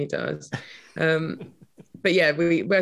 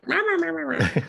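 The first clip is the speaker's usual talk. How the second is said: big booming theatrical voice, much higher; hammy stage actor; 11 semitones higher, faster than usual. Retold or imitated. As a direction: overact it like a stage ham. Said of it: "when I naturally talk, I'm like".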